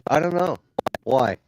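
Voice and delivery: bad connection cutting in and out; choppy audio. Real, not acted. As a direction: audio breaking up. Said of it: "You sound kinda choppy".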